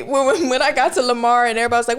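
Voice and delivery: normal talking voice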